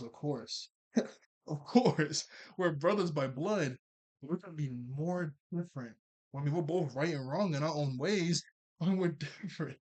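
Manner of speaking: imitating a manic laugh between phrases; maniacal laughing. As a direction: act out laughing through the retort. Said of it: "He just starts laughing like a maniac".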